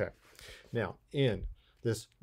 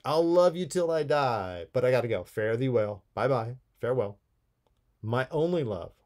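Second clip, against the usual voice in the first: louder, emphatic recital of farewell lines; dramatic poem reading; 3 dB louder than usual. Acted. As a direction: declaim the lover's farewell with feeling. Reads the poem's ending dramatically.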